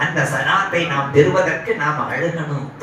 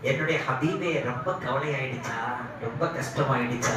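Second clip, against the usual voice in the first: softer, gently consoling voice; tender sympathy; 3 semitones lower, 6 dB quieter than usual. Retold or imitated. God to His worried beloved Prophet, tenderly consoling. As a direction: ask softly, as if soothing a loved one.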